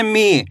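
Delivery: मी with a long ee; drawn-out vowel. Shown as a demonstration. Teacher demonstrating the big matra, मी stretched out. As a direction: hold the ee in मी. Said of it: "बड़ी ई की मात्रा को खींच".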